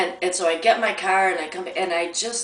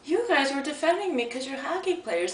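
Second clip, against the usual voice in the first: much higher, swooning "Oh"; thrilled girlfriend on the phone; gushing delight; 6 semitones higher, 3 dB quieter than usual. Retold or imitated. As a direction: gush at him, thrilled. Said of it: "and I'm like".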